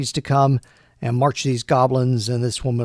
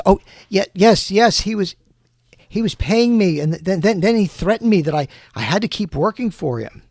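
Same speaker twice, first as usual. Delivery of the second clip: higher-pitched, stumbling admission; flustered confession; 5 semitones higher, 4 dB louder than usual. Acted. Questioned woman admitting she was threatened, mildly flustered. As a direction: blurt it out in nervous repeats, lightly acted.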